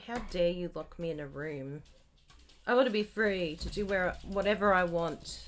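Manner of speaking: lightly voiced indignant dog; mock protest in the dog's voice; voicing the dog. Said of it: "It's like".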